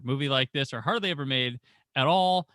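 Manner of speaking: ordinary delivery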